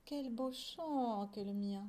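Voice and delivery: slow, savoured private thought; self-satisfied musing. Acted. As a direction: linger contentedly over each word. Fut-Fut's silent, self-satisfied thought.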